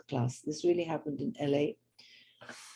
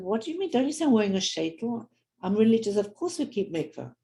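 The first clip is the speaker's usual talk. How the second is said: indignant; 5 semitones higher than usual. Retold or imitated. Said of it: "she was very indignant".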